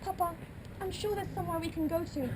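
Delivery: high, fast, close to tears; panicked bride. Acted. Bride begging her father before the wedding, tearful. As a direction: cry out for Papa in desperation.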